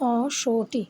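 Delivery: "অসটি" opening on a long o; n not fully sounded. Shown as a demonstration. Teacher correcting the spelling-based reading, "অসটি" without a full n. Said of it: "সম্পূর্ণ এনের উচ্চারণ করে না".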